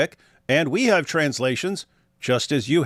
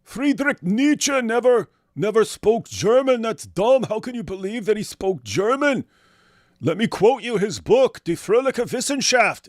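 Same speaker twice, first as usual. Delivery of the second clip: much higher, mock-smug jeering voice with a fake laugh; mocking know-it-all; 9 semitones higher than usual. Imitating a smug critic who says Nietzsche never spoke German, high jeering voice. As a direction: ham up a smug fool lecturing everyone. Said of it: "if someone came out and said".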